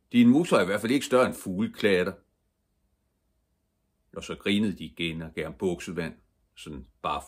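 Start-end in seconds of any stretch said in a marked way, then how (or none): 0.1-2.1 loud, quick jeer in a raised pitch; mocking bullies. A narrator's reading. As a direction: rattle off the taunt loudly. Big boys mock Ivan's muscles. (højt og hurtigt hånende)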